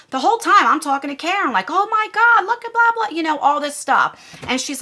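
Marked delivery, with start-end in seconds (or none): 1.7-3.2 high-pitched reenacted exclaiming; retold shock. Venting to Karen about the thumbnail, high retold shock. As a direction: replay your shocked venting, voice jumping up high.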